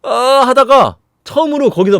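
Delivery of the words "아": high, loud mock wail; hammed-up zombie child's cry; imitated crying. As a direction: let out an acted wail. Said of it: "좀비인데 막 울어".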